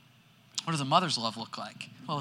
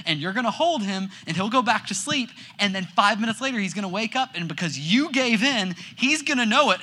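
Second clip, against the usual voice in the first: insistent warning; 4 semitones higher, 5 dB louder than usual. Retold or imitated. Father warning wife not to pick up baby.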